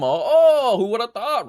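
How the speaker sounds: sarcastic. Real, not acted. Sarcastic jab at ratings.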